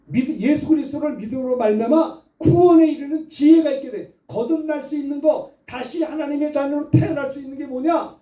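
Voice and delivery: normal talking voice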